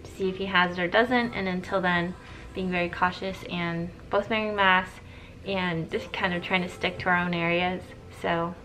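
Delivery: talking through a face mask; muffled behind a mask. Real, not acted. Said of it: "why I'm wearing a mask right now".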